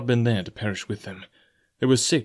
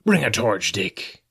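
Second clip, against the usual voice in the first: Silver; slower than usual. A narrator's reading. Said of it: "said Silver".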